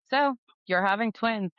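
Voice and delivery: a hint of the doctor announcing good news; doctor breaking news.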